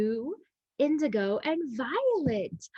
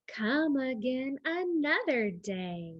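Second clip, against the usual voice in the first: story reading; slower than usual. Acted. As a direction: read it gently to children. Reading book text.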